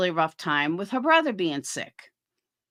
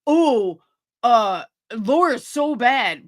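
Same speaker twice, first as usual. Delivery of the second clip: louder, slow mock imitation of the rival; mock whiny quote; 4 dB louder, slower than usual. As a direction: drag it out like a sneering gossip. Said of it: "she's sitting there going".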